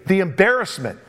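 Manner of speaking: lightly voiced pleading widow; beg, slowing near the end. Preacher as the widow pleading with David not to enact the law, lightly. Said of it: "she's pleading with David".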